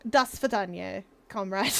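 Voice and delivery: a hint of TV Russian; fake Russian accent. Shown as a demonstration. Streamer showing chat the tongue position, fake Russian accent. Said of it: "if you want a fake Russian accent".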